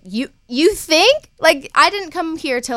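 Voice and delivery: slow, high sarcastic disbelief; mock coldness. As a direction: drag it out sarcastically. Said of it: "I was like".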